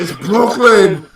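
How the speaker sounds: slow, drawn-out emphatic explaining; hammed-up disbelief, leaning on each key word; mock exasperation. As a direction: spell it out as if they just don't get it. Mock-lecturing viewers on the show's name.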